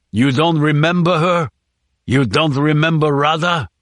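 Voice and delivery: angry demand. Acted. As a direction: press him in rage. Interrogating enraged.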